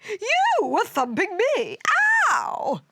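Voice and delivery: high-pitched accusing yell; indignant shout. A narrator's reading. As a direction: throw the blame right back. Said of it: "shouted Earth".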